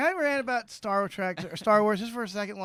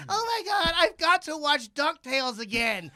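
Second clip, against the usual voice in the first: mock excited fan; 5 semitones higher than usual. Mocking a DuckTales fan.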